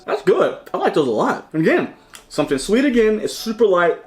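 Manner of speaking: talking with a mouthful; mouth full. Real, not acted. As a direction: speak around a mouthful of pastry. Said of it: "I'm talking about mouthful".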